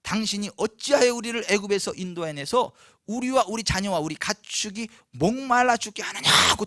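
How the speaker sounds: worked-up, mounting reproach; heated accusation. Acted. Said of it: "더 막 핏대를 세우면서요".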